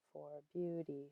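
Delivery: "for beauty" softly, long on BEAU-, short either side; short-long-short stress. Shown as a demonstration. Teacher testing the meter, soft "for beauty" stressed on BEAU-. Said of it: "short, long, short".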